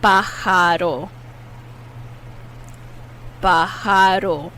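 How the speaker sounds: Pájaro with the J said as a breathy H, pa-ha-ro. Shown as a demonstration. Teacher modelling Pájaro for learners, J as H. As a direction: say the J in Pájaro like an English H. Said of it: "The J is pronounced like an H".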